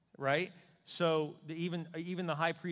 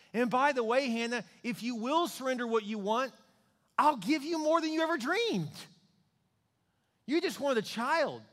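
rising promise; 9 semitones higher, 6 dB louder than usual. Retold or imitated. God promising Hannah.

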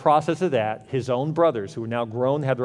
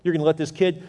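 acted incredulous protest, a little higher; mock frustration; 3 semitones higher than usual. Preacher voices those around the king, in mock frustration. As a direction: mildly imitate a frustrated courtier's objection. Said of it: "freaked and frustrated everyone around the king".

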